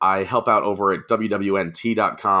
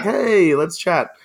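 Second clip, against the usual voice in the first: high, loud chummy hey; big swooping hello, easing off after; friendly greeting; 8 semitones higher, 3 dB louder, much slower than usual. Retold or imitated. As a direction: re-enact hailing someone for a chat. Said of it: "And then I was like".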